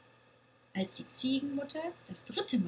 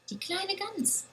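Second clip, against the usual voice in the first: excited cry; 10 semitones higher than usual. A narrator's reading. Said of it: "rief die kleine Ziege aufgeregt".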